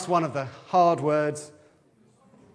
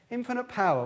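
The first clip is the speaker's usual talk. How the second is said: high, punchy cartoon hero cry; mock cartoon catchphrase, pitched way up; 7 semitones higher than usual. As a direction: boom it out like a cartoon superhero. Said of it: "It's from a cartoon".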